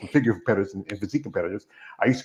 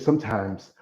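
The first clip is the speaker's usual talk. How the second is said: slow saying; slower than usual. Retold or imitated. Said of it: "He says this".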